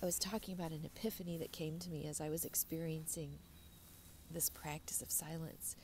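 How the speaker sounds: after crying. Real, not acted. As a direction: speak softly, still teary. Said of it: "I'm getting a little teary again".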